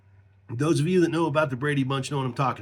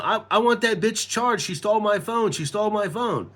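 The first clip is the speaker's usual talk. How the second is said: higher-pitched mock outrage, not truly shouted; retold screaming; 5 semitones higher than usual. Handcuffed, accusing the woman to the cops, mild screaming. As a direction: protest insistently, a mild mock yell. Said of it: "The whole time I'm screaming".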